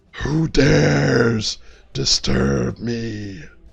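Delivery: echoing, reverberating, rough creaky voice. A game master voices an unseen being challenging the party, echoing voice. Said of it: "you hear that same echoing voice".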